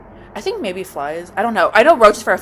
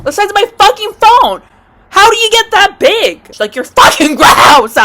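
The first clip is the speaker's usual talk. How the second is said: very high, incredulous yelling; high rant bursting into a shout; disgusted outburst; 9 semitones higher, 5 dB louder than usual. Acted. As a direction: shriek in revolted disbelief. Disgusted outburst at roach's size.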